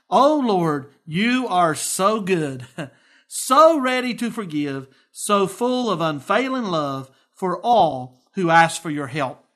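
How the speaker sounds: Oh Lord read with rising fervor, you are so good slowed; fervent scripture reading. Acted. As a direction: read it as a heartfelt prayer. Reading David's prayer aloud.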